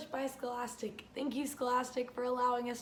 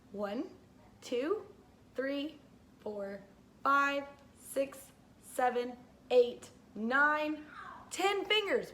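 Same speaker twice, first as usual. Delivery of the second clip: put-on teaching a child to count; slower than usual. Shown as a demonstration. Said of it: "let's count together".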